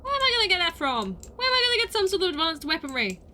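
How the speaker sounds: loud, high exasperated cries; frantic high complaint; panicked yelling. Real, not acted. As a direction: wail it out in frustration. Player panicking over quest.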